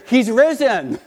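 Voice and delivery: high, loud triumphant cry; a boy's loud, high shout of joy; joyful scream. Retold or imitated. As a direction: shout it so the whole house hears. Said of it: "screams for the whole house to hear".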